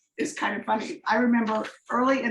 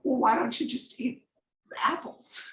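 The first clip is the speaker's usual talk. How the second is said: sweet and calm. Retold or imitated. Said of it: "he very sweetly and very calmly says".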